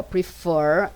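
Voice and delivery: prefer with the second syllable stressed; stress on FER. Shown as a demonstration. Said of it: "essa é a sílaba mais forte".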